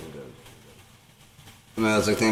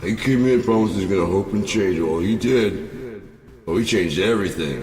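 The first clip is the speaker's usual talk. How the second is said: sarcastic rant; 3 semitones higher, 4 dB louder than usual. Retold or imitated. Mocking Fox-style dad rant.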